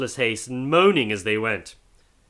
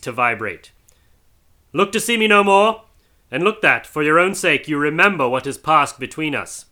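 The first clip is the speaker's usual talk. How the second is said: higher, louder grave warning; solemn ghostly warning; 4 semitones higher, 4 dB louder than usual. Acted. Marley's ghost warning Scrooge, solemn. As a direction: warn him with weight.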